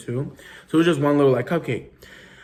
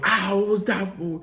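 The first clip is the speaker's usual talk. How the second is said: higher whiny brother voice; imitating brother; 7 semitones higher than usual. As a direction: yelp like the slapped kid. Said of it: "he goes".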